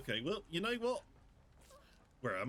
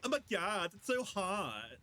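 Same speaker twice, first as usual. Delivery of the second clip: put-on Valley Girl; 4 semitones higher, slower than usual. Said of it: "That's kind of what Cosmic sounds like".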